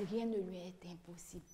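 hushed whisper of the phrase; whispered to the children. Shown as a demonstration. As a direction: drop to a secret whisper.

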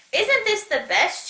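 high, bright-eyed party cheer. A narrator's reading. Oxpecker cheering to everyone on the dance floor, high. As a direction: call it out happily over the music. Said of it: "cheered Oxpecker".

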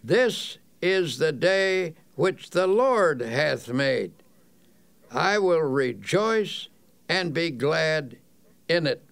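slow, measured affirmation in a clear voice; strong, clear, positive. Shown as a demonstration. Morning affirmation said on rising, strong and positive. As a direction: declare it deliberately, phrase by phrase. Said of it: "Repeat it in a strong, clear voice".

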